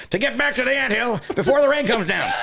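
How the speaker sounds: high, loud line breaking into laughter; can't hold the voice for laughing; laughing through a character line. Acted. Host cracking up mid-voice for the game.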